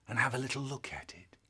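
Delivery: soft, fast, secretive whisper; plotting quietly; sneaky whisper. Acted. Sneaking downstairs at night.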